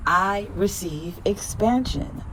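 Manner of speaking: slow, rising affirmation. Shown as a demonstration. Affirmation for viewers, slow with a lift. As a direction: stretch it out, lifting at the end. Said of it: "Repeat after me".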